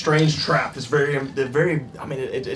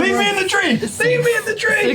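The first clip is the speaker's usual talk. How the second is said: shouting. Pretend. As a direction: yell to be left alone. Trapped character pleading in panic.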